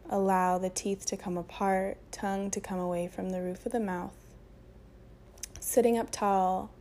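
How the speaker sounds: unhurried meditation voice with long pauses; guided meditation. Acted. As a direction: guide them gently into breath and stillness.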